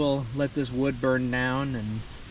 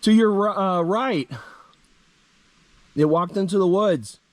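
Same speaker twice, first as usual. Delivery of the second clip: excited; 6 semitones higher, 5 dB louder than usual. Real, not acted. Excited report of the bear.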